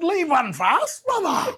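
high, slow, laughing mock plea; slowed, giggling joke to a rival. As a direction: tease him while laughing. Joking plea to rival nominee.

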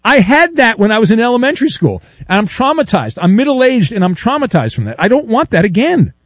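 high-pitched comic protest; mock indignation. Host refusing a pity offer, mock-indignant and worked up. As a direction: play up the wounded outrage.

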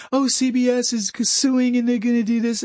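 lightly voiced breathless reporter; dismissive parody of the news; mock newsy voice. Mocking a report that CBS is suing.

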